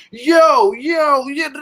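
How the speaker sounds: put-on loud, high street call in a Boston accent; strong Boston accent. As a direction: imitate a girl calling out with a Boston street accent. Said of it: "strong Boston accent to where she'll be walking down the street and being like".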